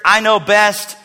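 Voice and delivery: bitter know-it-all demand; arrogant demanding. Acted. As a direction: order God over like a subordinate. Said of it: "this arrogant, demanding".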